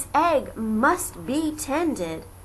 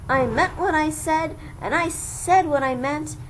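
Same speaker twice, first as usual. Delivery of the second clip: higher, louder firm vow; determined vow; 6 semitones higher, 4 dB louder than usual. Acted. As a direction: declare it with resolve. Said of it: "said with a sneeze".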